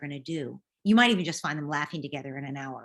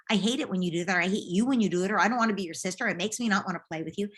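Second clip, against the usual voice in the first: mock angry daughter; 2 semitones higher, 5 dB louder, faster than usual. Daughter venting anger.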